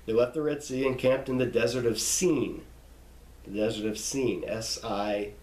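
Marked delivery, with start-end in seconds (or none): 4.0-4.4 "Sin" rhyming with "seen"; long I. Shown as a demonstration. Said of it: "long I".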